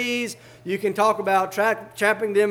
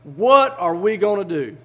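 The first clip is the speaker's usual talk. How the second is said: much higher and louder, slowing on the warning; panicked cry; 5 semitones higher, 7 dB louder, slower than usual. Acted. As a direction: shout at the master to wake up, in panic. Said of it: "it says with an exclamation point".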